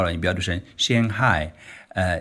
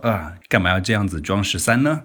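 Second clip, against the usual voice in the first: mild teasing. Retold or imitated. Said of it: "带着一点讽刺说".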